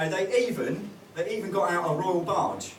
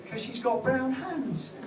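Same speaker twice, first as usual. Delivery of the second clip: put-on higher, slow kid's voice, very matter-of-fact; slow child voice; 7 semitones higher, 3 dB quieter, much slower than usual. Son explaining to his dad, slow high kid voice. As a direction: spell it out like an earnest five-year-old. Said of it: "son answers in the dialogue".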